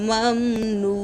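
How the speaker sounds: মামনুন with the vowel before the final নুন stretched three alifs long; long drawn vowel. Shown as a demonstration. Teacher demonstrating the stretched মামনুন to students, slow and drawn out. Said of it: "তিন আলিফ টেনে পড়বেন".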